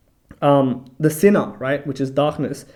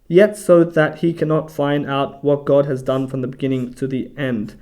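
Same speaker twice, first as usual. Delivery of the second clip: louder, measured reading aloud; scripture reading; 4 dB louder than usual. Acted. Bible study host reading a verse to listeners, scripture reading voice. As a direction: read the verse out firmly and deliberately.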